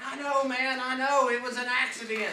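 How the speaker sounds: loud, high mock panic; retold frantic pleading. Shooter excusing himself to the wounded man, imitated frantic pleading.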